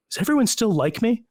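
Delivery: high, pleading put-on question; mock neediness. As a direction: ask it like an insecure plea for approval. Acts out own needy worry.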